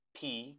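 "P" said pee with a puff of air; aspirated P. Shown as a demonstration. Teacher shows students the aspiration, puffed "P". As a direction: release "P" with aspiration. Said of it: "también hay como una aspiración".

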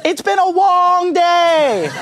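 high, drawn-out mock Indonesian outburst; slow, baffled Indonesian caricature, pitched high; bad Indonesian accent. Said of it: "forgive me for this bad Indonesian accent".

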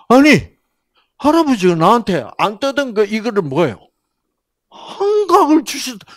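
put-on high, loud astonished child voice; amazed child. Child telling about grandpa's gift, high and astonished. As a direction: burst out in wide-eyed surprise.

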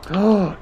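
high, sudden intake of breath; surprised gasp. Real, not acted. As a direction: gasp at a lucky find.

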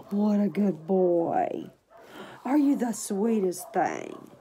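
talking to a tiny puppy; cooing to puppy. Real, not acted. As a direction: coo over him slowly. Baby talk to puppy.

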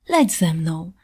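a swallow calling her friend warmly; heartfelt invitation. A narrator's reading. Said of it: "rzekła serdecznie jaskółka".

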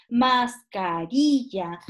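"mascarilla" slow, its tonic syllable leaned on; stressed syllable shown. Shown as a demonstration. Teacher showing students where the voice falls, stressed syllable shown. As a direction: say "mascarilla" slowly, loading the stressed RI. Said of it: "donde recae la voz".

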